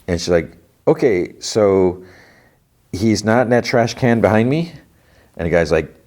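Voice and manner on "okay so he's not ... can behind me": retold wary probing. Intruder asking about the body, careful awkward probing. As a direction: tread carefully, stretching out "Okay, so".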